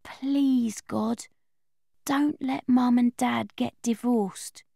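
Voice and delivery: soft, slow, hushed plea; a soft, slow bedtime prayer; quiet prayer. Acted. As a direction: murmur it like a prayer to yourself. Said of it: "This is what I pray".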